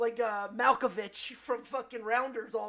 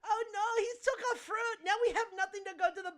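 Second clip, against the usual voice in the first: mock wail; 9 semitones higher, faster than usual. Mock crying over barbecue.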